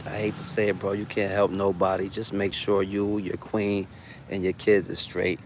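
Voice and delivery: talking around a lit cigarette; words round a cigarette; cigarette in mouth. Real, not acted. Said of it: "let me light my cigarette".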